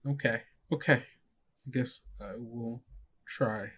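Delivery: quiet teary acceptance after wiping tears; small, soft voice, still teary; tearful and soft. Acted. Girl wiping tears to the friends, quietly tearful. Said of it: "wipes the tears from her eyes".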